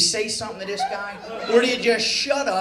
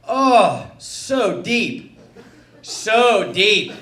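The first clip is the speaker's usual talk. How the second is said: loud, drawn-out moan imitating the podiatrist; hammed-up groans of effort that sound sexual; mock moaning; 2 semitones lower, 6 dB louder, much slower than usual. Acting out podiatrist's overheard moaning.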